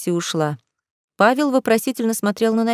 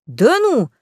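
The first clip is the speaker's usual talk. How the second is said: higher, astonished outburst; a sudden "no way!"; surprised exclamation; 5 semitones higher, 3 dB louder than usual. A narrator's reading. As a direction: blurt out in disbelief. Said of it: "удивлённо воскликнул Павел".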